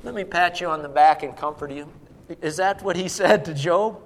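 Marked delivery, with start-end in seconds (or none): 0.0-1.9 low, quick, soothing aside; lightly voiced gentle consolation; mock comforting. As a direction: imitate a coddling, comforting God. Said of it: "God didn't come to Job and said".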